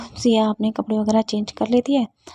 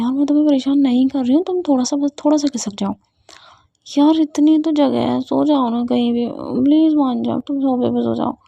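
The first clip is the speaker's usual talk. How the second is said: pleading; 3 semitones higher than usual. Acted. Ruhi begging for space in bed.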